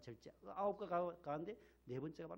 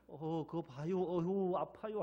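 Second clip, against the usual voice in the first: Chungcheong calm; 4 dB louder, slower than usual. Retold or imitated. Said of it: "충청도 분들 팔을 삐틀어도".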